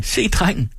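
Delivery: high, excited-style cry at normal volume; narrated call. A narrator's reading. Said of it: "råbte Tine". (højt, lyst tilråb uden fuld styrke)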